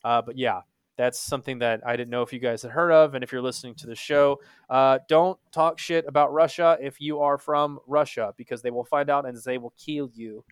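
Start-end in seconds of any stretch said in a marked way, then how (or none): 4.7-10.4 a light mock German accent; half-joking German-accented warning. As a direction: warn the listeners in a hint of a German accent. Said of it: "I don't know why I had a German accent".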